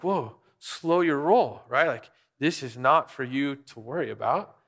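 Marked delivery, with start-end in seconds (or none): 0.0-1.6 calming dad. Retold or imitated. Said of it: "And I was like".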